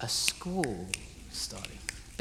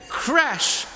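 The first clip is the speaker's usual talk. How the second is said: high, loud sound-effect shout; crashing wave; 12 semitones higher, 6 dB louder than usual. Shown as a demonstration. Leader shows the group their wave sound, shouted crash. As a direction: burst out like a breaking wave. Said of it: "Can we try that?".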